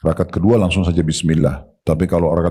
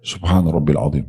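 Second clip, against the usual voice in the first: slow demo recitation; 3 semitones lower than usual. Shown as a demonstration. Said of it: "Satu detik lagi".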